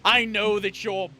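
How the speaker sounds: father shouting scorn at his son; furious shout. Acted. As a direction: bellow his contempt down at the son. Villain father rages at son.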